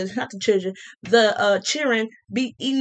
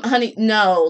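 condescending honey; 3 dB louder than usual. Retold or imitated. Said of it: "condescendingly calling me honey".

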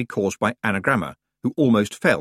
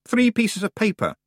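put-on whiny young witch; 13 semitones higher than usual. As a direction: whine like a spoiled out-of-depth girl. Anagramma voice.

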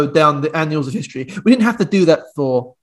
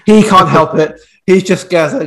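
put-on louder retry of the same rough Geordie accent; second go at Geordie; 2 semitones higher, 4 dB louder than usual. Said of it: "That's a terrible Geordie accent".

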